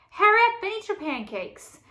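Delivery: high, loud roar. A narrator's reading. Father roaring the joke's punchline at his son, loud roar. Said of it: "Fergus roared".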